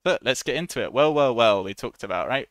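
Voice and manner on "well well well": loud, booming well well well. Shown as a demonstration. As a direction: boom it out like a grand announcement. Teacher performs the phrase loudly.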